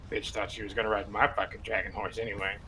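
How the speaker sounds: muttered under breath. Acted. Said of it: "mumble under my breath".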